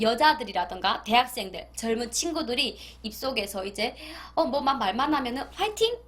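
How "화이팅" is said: cheerful cheer. Retold or imitated. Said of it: "이렇게 한대요".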